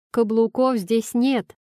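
haughty, slow put-down; arrogant retort. Acted. Husband answers bossy wife with mild arrogance. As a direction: sniff it out with disdain. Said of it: "отвечаю заносчиво".

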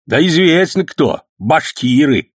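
put-on high, loud old man's complaint, sometimes slow; lamenting old man. A narrator's reading. Robbed old man complaining to his nephew, high and aggrieved.

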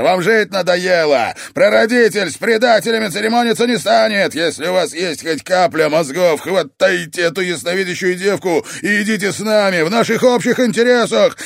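raging shout. Acted. Oscar raging at traitor brothers.

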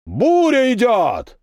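slow, high roar of many throats; roared reply. A narrator's reading. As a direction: bellow it back like a crowd. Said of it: "проревели сотни глоток в ответ".

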